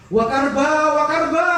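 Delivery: high, loud lament; wife's loud anguished wail; wailing cry. Retold or imitated. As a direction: wail it like the grieving wife. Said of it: "Sampai istrinya teriak-teriak".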